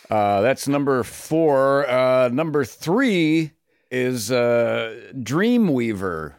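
slow countdown announcer delivery; Shadow Stevens. Acted. Guest moves down to number three, announcer impression. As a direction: stretch the numbers like a chart host. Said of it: "my Shadow Stevens voice".

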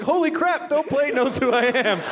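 excited. Retold or imitated. Retold starstruck reaction.

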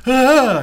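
high, loud delighted monster moan; Frankenstein's happy cry. Acted. Frankenstein watching the flower float, high happy monster moan. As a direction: let out a pleased monster's wordless cry. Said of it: "He's all happy as Frankenstein".

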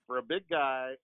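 ordinary delivery

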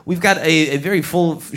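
normal talking voice

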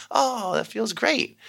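high, slow, dreamy "oh"; delighted kid. Retold or imitated. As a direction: savour it like a pleased child. Kids' delighted reaction voiced.

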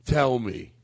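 put-on drunk uncle lament. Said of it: "He'd be like".

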